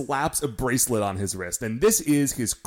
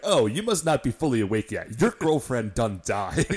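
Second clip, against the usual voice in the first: mock chief. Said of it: "And the chief says".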